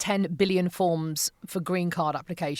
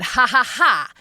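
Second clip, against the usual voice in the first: mock triumphant laugh; 4 semitones higher, 6 dB louder, slower than usual. Mocking the doctor.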